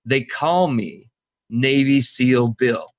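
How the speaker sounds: slow, drawn-out grand self-naming; slow proud self-introduction. Retold or imitated. Homeless man slowly introducing himself to the couch givers, proudly. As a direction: announce the nickname slowly like a title. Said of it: "Who says that?".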